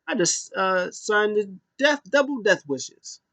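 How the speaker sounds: creepy Fiend voice. Retold or imitated. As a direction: savor the words like a sinister host. Fiend voice after signing.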